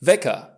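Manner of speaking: "Wecker" with a short, punched first e; short vowel. Shown as a demonstration. Teacher models CK, "Wecker" with short first vowel. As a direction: say "Wecker" with quick e before the k. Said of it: "vocala anterioară se pronunță scurt".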